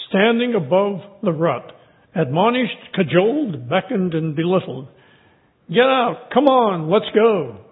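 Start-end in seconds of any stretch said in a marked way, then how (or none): 5.7-7.6 pleading wife. Acted. Missus Frog urging her husband out of the rut, pleading. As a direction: coax him out with rising pleas. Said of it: "she pleaded".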